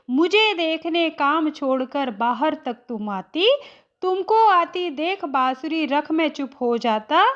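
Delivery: measured, unhurried reading of verse to the class; poem recitation. Acted. Hindi teacher reads the poem stanza to students, recited. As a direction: recite each line evenly, letting it settle.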